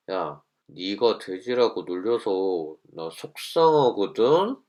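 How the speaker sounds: slow, sneering, pointed; snide angry tone. Shown as a demonstration. Teacher shows the wrong tone, slow and sneering. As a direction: drag it out with an edge. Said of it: "이렇게 하면".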